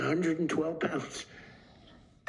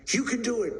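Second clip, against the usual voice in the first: higher, pushy corner-man urging; coach urging; 8 semitones higher than usual. Retold or imitated. Corner man urges the boxer back in, high mock urging. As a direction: shove her back out into the ring.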